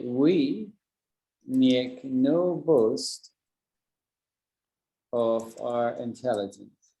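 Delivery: each word laid down very slowly, with long pauses; slow deliberate demo. Shown as a demonstration. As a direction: spell out "make no boast" slowly, word by word, like a model sentence. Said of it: "I could say".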